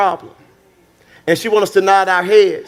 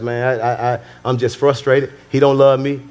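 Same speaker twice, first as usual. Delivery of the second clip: frustrated wife; 6 semitones lower than usual. Acted. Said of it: "they just go through their marriage frustrated".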